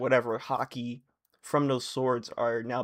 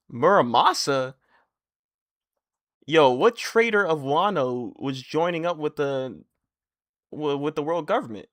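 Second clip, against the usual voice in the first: louder, incredulous; shocked; 6 dB louder than usual. Real, not acted. Fan outraged over Muramasa, loud incredulity. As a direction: demand an answer.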